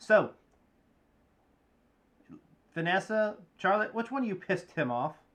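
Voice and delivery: tiny, small, high little voice. Voicing a character who walks in after a clunk on the table: little voice. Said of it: "the little voice goes".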